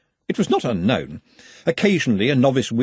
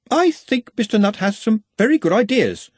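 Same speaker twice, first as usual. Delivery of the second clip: careful; 10 semitones higher, 3 dB louder than usual. A narrator's reading. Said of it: "he said carefully".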